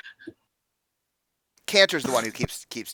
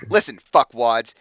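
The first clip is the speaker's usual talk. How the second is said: slow, loud insult; abrupt, confrontational; 8 dB louder than usual. Acted. Hothead stepping forward at the clients, abrupt and loud. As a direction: cut in forcefully. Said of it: "he just steps forward very abruptly".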